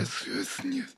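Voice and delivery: whispered snake hiss, backwards and haunted; parseltongue hiss. Pretend. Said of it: "I'm just speaking parcel tongue".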